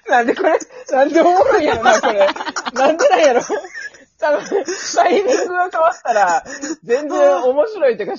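high laugh near crying; laughing to tears. Real, not acted. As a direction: laugh until tears come.

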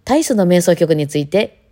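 slow, over-formal recital introduction; mock the polished concert host; lightly hammed-up politeness for an audience; stilted stage greeting. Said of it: "なんであんな喋り方するんですかね".

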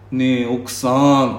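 slow sweet-talking plea to his wife; wheedling coaxing voice. Retold or imitated. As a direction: coax her gently, drawn out. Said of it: "っていう猫なで声で".

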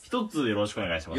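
slurring through a numbed mouth; numb mouth slur. Real, not acted. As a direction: speak like the anesthetic hasn't worn off. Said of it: "ちょっと滑舌が怪しいですね".

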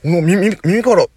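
jumpy surprise settling into an oh-it's-earbuds; surprised realization. Retold or imitated. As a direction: catch yourself, then relief. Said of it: "つって".

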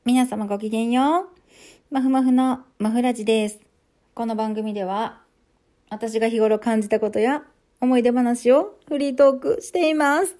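put-on posh young lady greeting; lilting ojousama voice, a touch hammed; haughty rich girl. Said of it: "何 この始まり方。なんでこんな変な言い方しちゃったんだろう".

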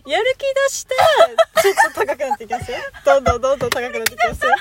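fast, rising into brighter energy; pep up as you go; motivated voice. Shown as a demonstration. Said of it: "やる気出したらどうなの？".

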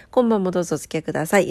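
fast upbeat YouTuber greeting; YouTuber intro. Shown as a demonstration. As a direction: rattle it off like a YouTuber. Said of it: "YouTuberみたいなやつ".

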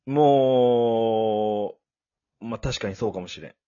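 talking around a throat lozenge; words round a sucked candy; sucking a lollipop. Real, not acted. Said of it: "喉飴舐めながら喋ってる".

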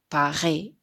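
"パリ" with a French throat R, "Pa-ʁi"; French Paris. Shown as a demonstration. Teacher demonstrates Paris in French. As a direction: roll "パリ" back in the throat like French. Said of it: "言えましたかね".

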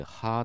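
はー drawn out with friction from the throat; long はー, air rubbing in the throat; throaty H sound. Shown as a demonstration. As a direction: show はー as a long glottal fricative. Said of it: "喉で摩擦を起こす".

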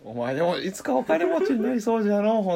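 put-on high old man's voice, croaking; creaky wise old man. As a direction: play a doddering elder on his deathbed. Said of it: "死ぬ時に".

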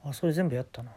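small voice. Retold or imitated. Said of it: "ちっちゃい声で".

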